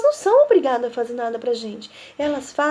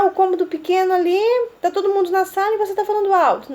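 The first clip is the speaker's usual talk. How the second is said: quick lively telling; 3 semitones higher, faster than usual. Shown as a demonstration. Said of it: "scene of loud talk".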